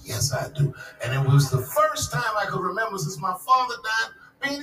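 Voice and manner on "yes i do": eager yes. Retold or imitated. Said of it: "And I said".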